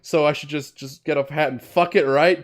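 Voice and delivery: acted indignant questioning. Cop challenging the girl over the hat, indignant. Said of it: "Maybe add more indignation".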